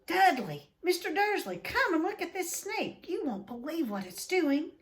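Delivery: high, loud excited call; shout. A narrator's reading. Piers calling Dudley and his father over, shouting high and loud. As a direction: yell across the reptile house. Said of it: "a deafening shout behind Harry".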